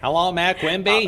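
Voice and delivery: loud Kennedy-style Boston voice; Mayor Quimby voice. Retold or imitated. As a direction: do an excited Quimby. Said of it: "like Mayor Quimby excited".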